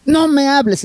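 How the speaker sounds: mild retold anger, pitched high; angry retort. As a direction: snap it at the child in anger. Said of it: "estaba muy enojado".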